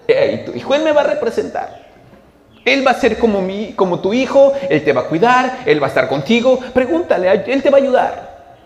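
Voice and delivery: preacher voicing Jesus, high and insistent; emphatic reassurance. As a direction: press each promise on the mother with force. Predicador representa a Jesús encargando a Juan. (promesa enfática, con voz elevada)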